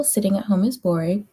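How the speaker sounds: yawning. Real, not acted. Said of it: "I'm yawning, everybody".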